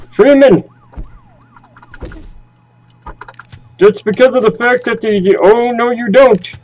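put-on stereotypical grumpy old man; cranky old geezer complaining. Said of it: "my old man voice".

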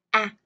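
"A" with mouth wide open; open vowel demo. Shown as a demonstration. Teacher shows the vowel in apple, "A" wide open. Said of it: "mở miệng to và rộng".

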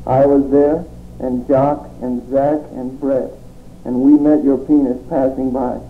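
rhythmic, declaiming poem read. Acted. Poet reading his surreal poem to the audience, declaiming.

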